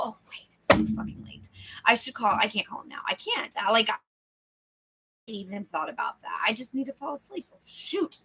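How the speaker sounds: sleepless inner voice. Acted. Tired mind trying to sleep, increasingly fretful. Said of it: "the voice inside your head that says".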